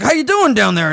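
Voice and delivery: high, mocking cheerful call; Trevor voice. Trevor talking to the dead biker, mock cheerful. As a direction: taunt a dead man sweetly. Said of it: "And he's like".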